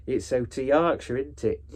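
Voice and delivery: mock Yorkshire lilt; not-quite-proper Yorkshire; Yorkshire accent. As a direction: lightly fake a Yorkshire accent. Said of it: "I know that's not a proper Yorkshire accent".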